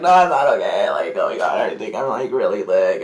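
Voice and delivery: lightly voiced sick drunk; drunk friend's voice. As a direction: imitate a woozy drunk friend complaining. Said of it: "I had to do the voice".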